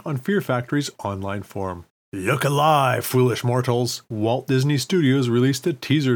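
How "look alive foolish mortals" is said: booming spooky ghost host; dark lord. Acted. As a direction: greet them like a haunted mansion host. Haunted Mansion greeting, spooky.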